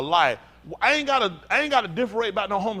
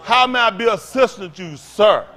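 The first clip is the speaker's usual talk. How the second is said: mock polite clerk; 6 dB louder than usual.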